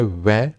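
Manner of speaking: "वै" drawn out as the w sound opening one; consonant sound demo. Shown as a demonstration. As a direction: isolate "वै" slowly for learners. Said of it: "वै एक consonant sound है". ("वै" की व्यंजन ध्वनि अलग करके बोलना)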